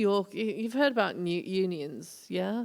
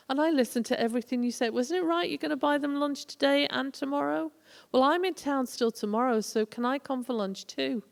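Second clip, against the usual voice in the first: higher-pitched, lively retold comeback; cheeky confrontation; 6 semitones higher than usual. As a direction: needle him with mock innocence. Retold cheeky confrontation of union boss.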